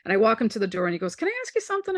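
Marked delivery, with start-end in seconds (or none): 1.2-2.0 lifted, higher voice for her brother; a hint of a wide-eyed younger brother; light high-voiced imitation of the brother; brother's voice. Voicing brother's hesitant question.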